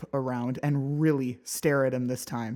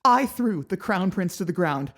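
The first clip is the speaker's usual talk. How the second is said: shaky, near-hysterical shouts, much higher and louder; half hysterical; 8 semitones higher, 10 dB louder than usual. Acted. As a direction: let the voice crack with panic. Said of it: "My voice shakes a half hysterical lilt".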